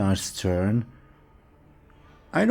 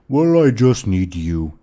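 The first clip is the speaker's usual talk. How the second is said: shrugging ogre; 2 semitones higher, 7 dB louder than usual. Acted. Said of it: "shrugs and says".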